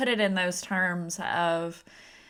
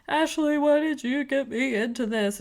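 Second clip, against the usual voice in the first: higher mimicked whine of complaint; mock crying; 6 semitones higher than usual. Crying editor complaining to Ashley, imitated as a mock wail. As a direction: lament as if close to tears, lightly hammed up. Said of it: "he's crying and he's like".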